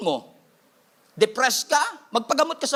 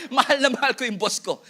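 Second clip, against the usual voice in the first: laughing sarcastic claim. Pretend. Mock answer about the boss.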